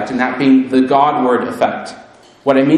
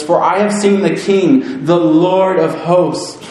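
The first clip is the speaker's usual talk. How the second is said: raised, pleading cry of a ruined man; Isaiah crying out before the throne, anguished; 4 semitones higher than usual. Acted. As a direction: beg heaven with a lifted, straining voice. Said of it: "he cries out".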